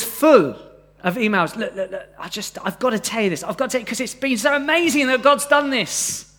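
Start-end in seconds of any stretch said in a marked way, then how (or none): 1.6-6.3 put-on eager Hastings accent, rising higher toward the end; lightly put-on Hastings accent, bursting to share news. Churchgoer bursting to tell the pastor good news, in a Hastings accent. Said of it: "that was my sort of Hastings accent".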